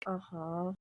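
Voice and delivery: low, very soft, dazed uh-huh; feeble agreement. Acted. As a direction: play along weakly while too sick to listen. Congested patient nodding along, unable to hear.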